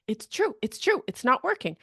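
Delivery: high-pitched mock protest; insistent protest. Coach imitating a discouraged job seeker, insistent protest.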